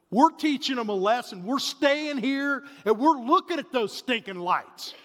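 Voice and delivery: retold stern dad, slowing on staying here. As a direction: lay down the law to the family. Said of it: "in a very stern voice".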